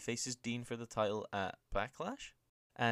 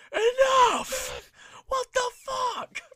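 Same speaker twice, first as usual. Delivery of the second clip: higher, much louder furious yell; mock GM shout; 11 dB louder, much slower than usual. General manager shutting down a brawl from the stage, shouting. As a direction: bark it down from the stage. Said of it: "Daniel Bryan from the stage goes".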